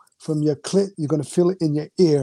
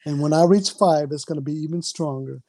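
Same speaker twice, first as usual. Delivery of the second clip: slow, coaxing hypnosis patter; hypnotist voice; 3 semitones lower, slower than usual. Acted. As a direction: lull her in like a stage hypnotist. Counts down, deepening the trance.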